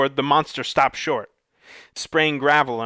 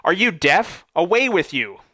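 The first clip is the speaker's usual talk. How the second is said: higher, louder angry shout; monster scream; 5 semitones higher, 4 dB louder than usual. A narrator's reading. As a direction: scream him off the property. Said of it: "the creature screamed".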